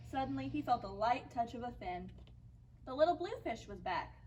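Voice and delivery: put-on measured picture-book reading for young listeners; story narration. A narrator's reading. Teacher reads a fish story to children, story narration.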